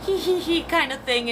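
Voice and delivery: a light high hee hee hee giggle; imitated chuckle. Imitating the departed mother's chuckle for viewers, light high giggle. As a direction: giggle it out in a mock little titter. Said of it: "She kinda did this".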